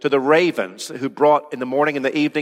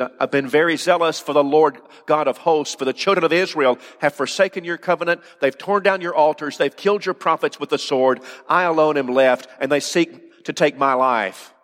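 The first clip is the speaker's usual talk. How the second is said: raised, higher voice, protesting his loyalty; aggrieved complaint; 4 semitones higher than usual. Acted. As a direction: plead your case to God, voice raised. Elijah's complaint read aloud.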